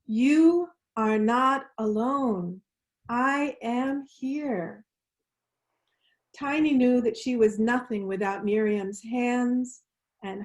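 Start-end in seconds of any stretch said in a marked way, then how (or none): 0.0-4.9 slow unison affirmation. Shown as a demonstration. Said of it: "Just one more time".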